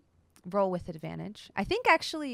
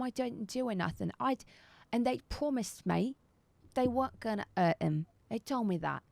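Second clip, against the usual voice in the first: lightly voiced cockney confession; cockney, nervous and hushed in places; cockney satyr; 4 semitones higher than usual. Satyr spilling the plot to the captors, cockney. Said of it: "still with this accent".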